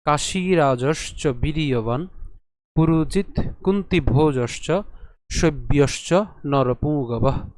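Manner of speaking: slow, measured shloka reading; Sanskrit verse recitation. Shown as a demonstration. Teacher presenting the verse to learners, slow measured recitation. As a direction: recite with long vowels and pauses between words. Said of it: "শ্লোকটি হচ্ছে".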